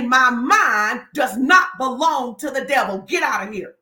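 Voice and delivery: firm declaration. Shown as a demonstration. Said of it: "and say".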